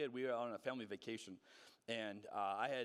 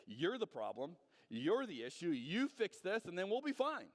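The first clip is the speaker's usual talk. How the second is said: mock blame; 4 semitones higher than usual. Pastor voicing a spouse blaming their partner, rising accusation. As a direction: point the finger, getting heated.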